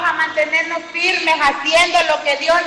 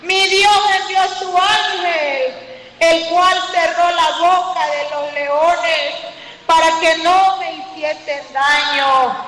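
bold reply; slower than usual. Retold or imitated. Daniel answers the king.

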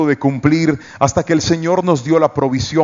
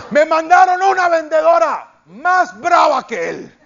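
laughing; 12 semitones higher than usual. Real, not acted.

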